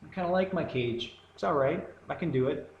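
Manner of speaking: lightly acted contented acceptance, high at first; mock complacency. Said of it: "you might look around and go".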